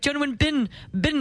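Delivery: "Bin" said like a rubbish bin, imitating the mocker; mocked pronunciation. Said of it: "the way that we all say your name".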